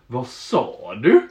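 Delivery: slow menace. Retold or imitated. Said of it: "Jag bara".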